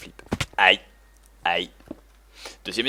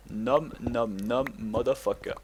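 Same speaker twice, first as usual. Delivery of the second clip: nom nom chomping; 2 semitones lower, 7 dB quieter, slower than usual. Pretend. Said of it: "Je suis le dévoreur de monde".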